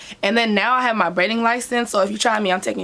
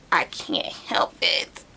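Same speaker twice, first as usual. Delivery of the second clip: whispered aside; much slower than usual. Real, not acted. Apologizing for hand gestures.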